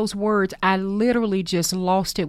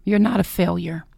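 whisper. Shown as a demonstration. Host whispering the title to her audience, hushed. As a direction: breathe the words gently to the listener.

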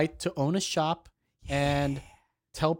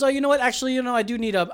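higher, lively put-on reconsidering; mock polite backtracking; 5 semitones higher, faster than usual. Customer telling staff he needs a mask, mock backtracking. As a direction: act out a sudden change of mind. Acts out man's fake change of mind.

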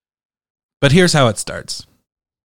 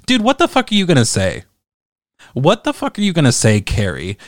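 incredulous outrage; 4 semitones higher than usual. Real, not acted. Incredulous rant at commenter Carrie.

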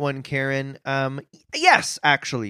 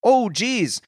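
anxious inner voice; 3 semitones higher than usual. Retold or imitated. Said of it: "the monsters in your head say things like".

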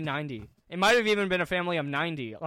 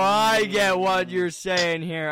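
slow knowing drawl; 3 dB louder, much slower than usual. Real, not acted. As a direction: draw it out knowingly. Knowing drawn-out reply.

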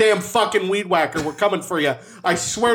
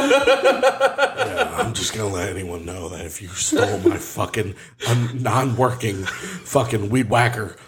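laughing; 5 semitones lower, slower than usual. Real, not acted. Laughing through mock threat.

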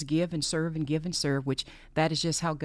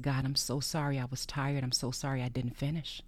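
retold prayer. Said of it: "this is just how I talk to God".

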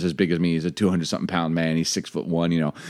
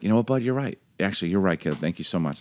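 humble apology; 6 dB quieter, faster than usual. Retold or imitated. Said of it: "being like".

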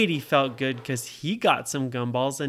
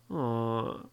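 mock sadness; 5 semitones higher than usual. Poor Brady and Nora run out, mildly sad. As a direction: lament like a let-down child, lightly acted. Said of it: "they were feeling so sad".

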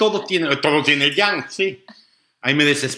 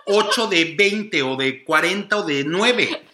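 laughing; 6 semitones higher, slower than usual. Real, not acted. Exaggerated complaint, laughing.

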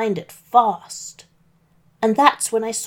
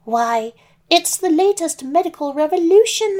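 put-on higher, louder wobbly old lady; old granny voice; 6 semitones higher, 3 dB louder than usual. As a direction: play the wolf faking a sweet granny. Wolf as Granny.

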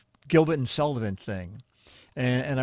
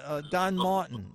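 eager fan recognition; 4 semitones higher than usual. Retold or imitated. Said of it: "you say".

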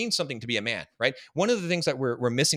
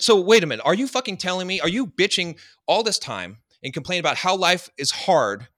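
loud, high-pitched incredulous challenge; raised voice, indignant rhetorical questioning; retold confrontation; 6 semitones higher, 5 dB louder than usual. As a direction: reenact chewing out a complaining client. Retold confrontation of complaining client.

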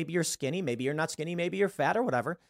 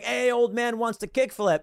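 put-on high, slow, stoked skater kid; stoked teen cheer; 8 semitones higher than usual. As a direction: cheer him on like a hyped teen. Teens cheering at skate park.

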